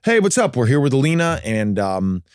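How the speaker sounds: lightly voiced, lifeless TV intro; a hint of a dull host read; flat TV intro. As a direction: say it like everyday talk, no energy. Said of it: "I was speaking in this voice".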